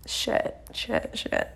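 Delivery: panicked inner whisper. Retold or imitated. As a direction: mutter it under your breath in a panic. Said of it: "And I'm like".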